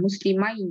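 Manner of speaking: মুসলিমাই closing on the glide "mai"; sukun on ya. Shown as a demonstration. Teacher shows sukun on ya, ai ending. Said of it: "ইয়ার উপরে সুকুন".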